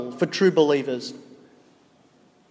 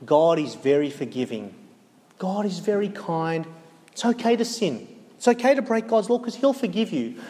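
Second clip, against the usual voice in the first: Satan's whisper; 3 dB quieter than usual. Acted. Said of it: "he will whisper to you".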